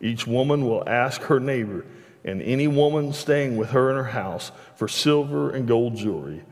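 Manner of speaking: steady, measured Bible reading voice; scripture reading. Acted. Preacher reading Exodus to the congregation, measured and steady. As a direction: read the passage out to the congregation. Reads scripture aloud from the pulpit.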